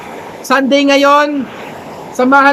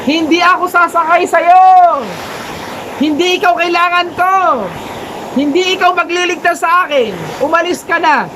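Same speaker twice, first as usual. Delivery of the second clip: stubborn refusal; 4 semitones higher than usual. Acted. Man refuses the rescue.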